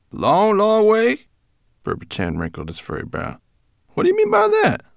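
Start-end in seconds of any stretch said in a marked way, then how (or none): 0.1-1.3 high, slow puzzled question; puzzled brownie. A narrator's reading. Brownie questions Firedrake, high and slow. 3.9-4.8 puzzled brownie. A narrator's reading. Brownie asks.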